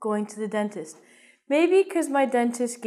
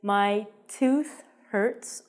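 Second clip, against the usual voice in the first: slow model phrase; much slower than usual. Shown as a demonstration. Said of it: "So you can say".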